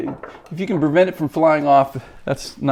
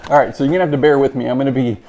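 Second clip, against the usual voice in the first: muffled behind a respirator; talking through a face mask; through an n95 mask. Real, not acted. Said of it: "under the respirator here for a few minutes".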